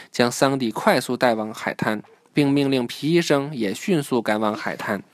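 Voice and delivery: clear, measured storybook reading; children's story narration. A narrator's reading. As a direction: read the story aloud to a child.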